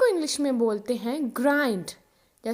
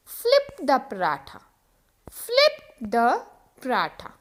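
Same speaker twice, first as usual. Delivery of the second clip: slow model sentence; much slower than usual. Shown as a demonstration. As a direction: flip the paratha said very slowly. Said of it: "example देखो". (धीरे-धीरे बोलें)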